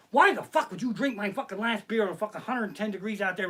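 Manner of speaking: laughing angry rant; mock outrage. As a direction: rant at the beer thief. Yelling at wife in dream.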